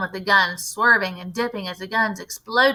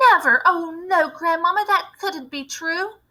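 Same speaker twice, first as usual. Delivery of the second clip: put-on shocked boy; 8 semitones higher than usual. A narrator's reading. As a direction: refuse to believe it, like a child.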